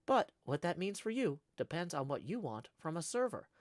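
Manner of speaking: flat, even robot reading voice. Pretend. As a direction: read it like a chatbot. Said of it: "like, a robot voice and sound".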